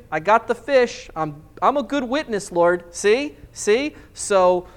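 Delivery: exasperated, pleading with the Lord; comic driver praying to God; mock complaining prayer. Preacher mock-praying in traffic.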